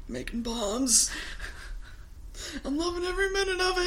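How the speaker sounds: drip with mock cheer; sarcastic. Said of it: "he's like".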